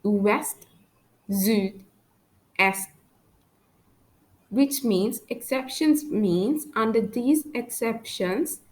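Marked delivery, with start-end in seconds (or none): 0.0-2.9 French "Ouest, sud, est" with final T and D sounded; pronounced final consonants. Shown as a demonstration. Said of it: "we pronounce the letters D and T".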